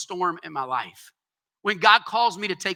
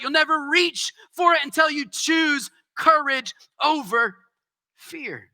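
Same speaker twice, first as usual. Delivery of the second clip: impassioned preaching; 4 semitones higher than usual. Real, not acted. Preaching climax.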